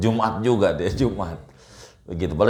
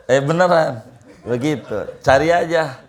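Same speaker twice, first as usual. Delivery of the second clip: laughing; 6 semitones higher, 3 dB louder than usual. Real, not acted. Joke about medicine name.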